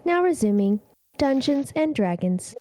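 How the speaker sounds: flat, even automated announcement; robot voice. Pretend. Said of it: "I'm gonna use my robot voice".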